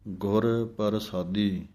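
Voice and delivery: ਗੁਰ ਪ੍ਰਸਾਦੀ with the ਰ fully voiced; full r sound. Shown as a demonstration. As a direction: give ਪ੍ਰਸਾਦੀ its whole ਰ. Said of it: "ਪੂਰਾ ਰਾਰੇ ਦੀ ਆਵਾਜ਼ ਦੇਣੀ ਹੈ".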